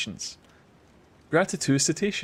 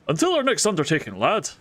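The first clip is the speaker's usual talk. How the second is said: voiced NPC accent. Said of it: "a different accent every time".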